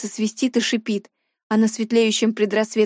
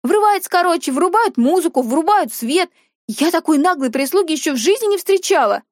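put-on snooty girl; 6 semitones higher than usual. Dina complains about the servant.

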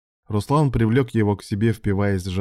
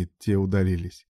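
plain reading voice

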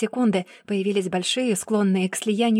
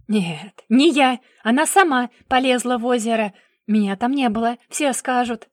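loud, higher, desperate; panicked denial; 3 semitones higher, 5 dB louder than usual. Acted. Brother denying he drowned mother, loud desperate. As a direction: deny it in a panic.

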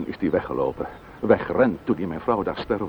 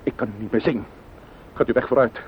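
higher, harsh order to leave; bitter, raised-voice send-off; angry dismissal; 6 semitones higher than usual. Acted. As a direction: throw her out, hot with anger. Widower orders the neighbour's wife out.

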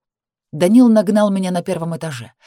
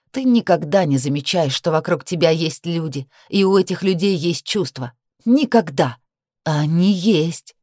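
bitter anger. Acted. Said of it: "говорила всё злее".

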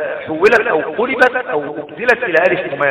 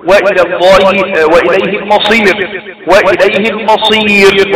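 Quran recitation. Shown as a demonstration. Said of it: "نقول، نقول".

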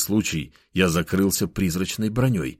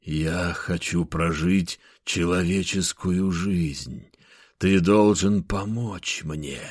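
slow, otherworldly forest hermit; eerie hermit voice; slower than usual. Acted. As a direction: draw it out like a hidden spirit. Hermit spirit speaks from trees.

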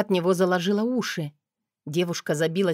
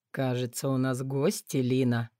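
low hoarse man's voice; slightly hoarse man; 6 semitones lower than usual. A narrator's reading. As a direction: say it huskily, amused. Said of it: "произнёс немного хрипло".

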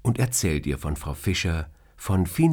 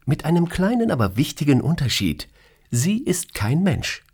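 pointed boss; 9 semitones higher than usual. Acted. Boss pointing out Morta is no human, slowed and pointed.

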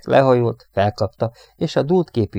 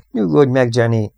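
loud, raised plea to settle; firm calming; 4 semitones higher, 6 dB louder than usual. A narrator's reading. Radioman calms his hysterical crewmate, firmly. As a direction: urge calm forcefully.

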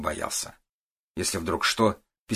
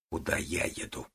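much softer, barely voiced correction; quiet correction; 3 semitones lower, 9 dB quieter than usual. A narrator's reading. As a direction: quietly set her straight about who is going. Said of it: "тихо уточнил он".

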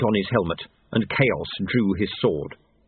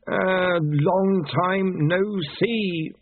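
high, very slow uneasy greeting; high slow nervous voice; nervous Pestilence; 8 semitones higher, much slower than usual. A narrator's reading. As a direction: drag it out awkwardly.

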